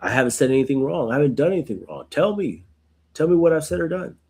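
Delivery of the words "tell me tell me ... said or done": pitched higher, insistent plea; pleading demand. Retold or imitated. Job demanding his friends name his wrong, pitched higher. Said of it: "trying to say".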